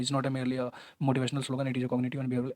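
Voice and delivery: slow word-by-word reading. Shown as a demonstration. Teacher demonstrates the wrong way, reading slowly word by word. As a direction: drag through the sentence word by word. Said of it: "ऐसे नहीं पढ़ना है".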